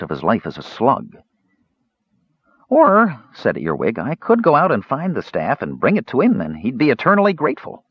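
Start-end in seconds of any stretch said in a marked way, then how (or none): 2.7-3.2 high eager "or"; eager idea. A narrator's reading. Earwig gets a bright idea. 4.0-7.9 kender voice. A narrator's reading. Earwig voiced, hopeful plan.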